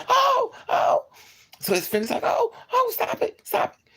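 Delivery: high, loud mock begging; high panicked pleading. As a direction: squeal for it to stop. Friend begging to stop fight.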